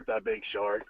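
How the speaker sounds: low robotic synthesized voice; flat robot speech synthesizer; Stephen Hawking voice. Shown as a demonstration. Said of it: "You gotta do it in the Stephen Hawking voice".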